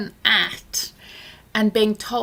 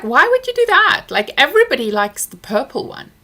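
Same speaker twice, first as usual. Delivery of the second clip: high, loud disbelieving snap; exasperated outburst; 5 semitones higher, 6 dB louder than usual. Retold or imitated. Mother snapping at her son over his pink choice, exasperated. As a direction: blurt it out, exasperated and much higher.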